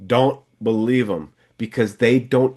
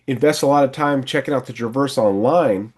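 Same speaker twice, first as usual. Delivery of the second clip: friendly sales pitch. Shown as a demonstration. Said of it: "So you can say".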